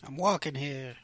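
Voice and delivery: lightly done New York accent. Shown as a demonstration. Co-host quoting an irate bumped train rider, New York accent. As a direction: put on a bit of New Yorker. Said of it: "Was that your New York accent?".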